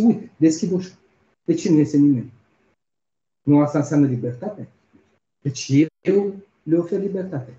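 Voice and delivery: retorică iritată, ridicată pe „eu”, cu un „Nu” mult mai sus și mai tare; exasperat. Retold or imitated. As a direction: ironie de ins exasperat care se apără. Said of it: "Și e exasperat acest individ". (individul exasperat întreabă copilul, ridicat și iritat)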